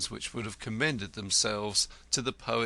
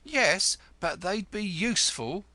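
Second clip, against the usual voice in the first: 1 tart retort; 10 semitones higher, 4 dB louder than usual. A narrator's reading. Wife retorts.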